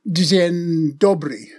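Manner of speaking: "Dzień dobry" said slowly in careful Polish; Polish pronunciation. Shown as a demonstration. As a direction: spell out "Dzień dobry" like a tourist. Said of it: "unable to say any more than".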